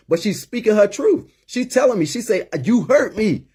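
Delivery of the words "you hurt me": high-pitched retelling of a hurt, bawling mother; retold anguish, voice pitched well up; imitating bawling mother. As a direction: plead your pain in a raised voice, as his mother did. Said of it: "and she's bawling".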